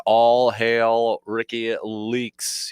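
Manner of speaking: slow, drawn-out royal herald call; grand proclamation. Acted. Proclaiming a listener's hail.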